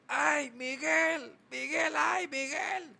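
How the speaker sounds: high, slow wailing plea; a high, slow wailing call for Miguel; imitating viral audio. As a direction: wail the name like the viral clip. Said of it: "como aquel audio".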